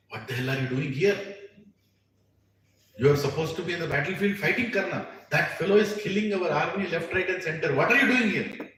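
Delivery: mock angry older brother; angry rebuke. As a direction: scold him like an angry elder brother. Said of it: "he gets very angry".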